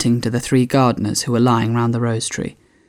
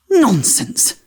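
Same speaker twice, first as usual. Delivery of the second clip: loud and decided; 10 semitones higher than usual. Acted. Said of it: "very loudly and decidedly".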